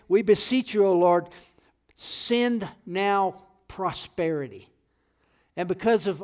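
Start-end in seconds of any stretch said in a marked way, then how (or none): 0.1-4.7 loud appeal, slowing to emphatic words; pleading. Retold or imitated. Preacher quotes David to the church, forceful pleading. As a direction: beseech loudly, then draw out the request. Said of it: "David is pleading with God".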